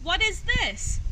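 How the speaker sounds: high, loud shocked cry; shocked outburst. Acted. Vulture finds the embarrassing photo, shocked and loud. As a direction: blurt it out in dismay.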